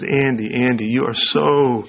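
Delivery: slow, tender naming of worries; a hint of Jesus speaking gently; gentle. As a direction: lay it out slowly and kindly. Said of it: "He comes, he says".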